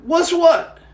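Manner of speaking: retold mock-bewildered denial; playing dumb. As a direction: pitch it up like you have no clue. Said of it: "I said".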